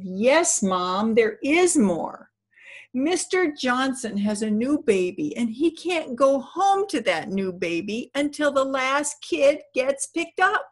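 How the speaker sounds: imitating an upset child, high and drawn out; slow, high mock-tearful plea to mom; almost crying, retold. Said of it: "And he's almost crying".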